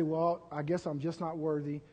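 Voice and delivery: soft, low giving up; a hint of hopeless mumbling; defeated resignation. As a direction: sound beaten and resigned. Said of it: "what the enemy would have you do is just say".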